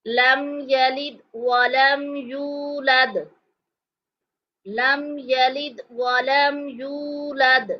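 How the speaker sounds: drawn-out chanted recitation; slow Quranic recitation. Shown as a demonstration. Teacher reciting verse three to students, slowly chanted. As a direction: recite slowly with long even vowels. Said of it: "अब हम पढ़ेंगे".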